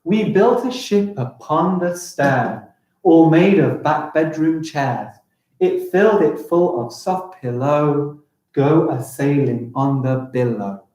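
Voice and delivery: slow, rhythmic verse read aloud; measured children's poem recital. Shown as a demonstration. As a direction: recite it with a steady beat for the class. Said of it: "if I read this to you".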